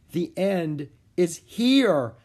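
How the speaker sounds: slow, weighty the end is here; ominous realization. A narrator's reading. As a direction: let it land. Jack's realization.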